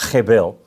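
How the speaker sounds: "hebel" said as Hebrew by an Australian; careful Aussie attempt at Hebrew "hebel"; Aussie-accented Hebrew. Shown as a demonstration. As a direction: demonstrate "hebel" as KHEH-bel, Aussie-style. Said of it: "say it with an Aussie accent".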